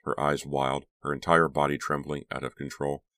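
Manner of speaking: ordinary delivery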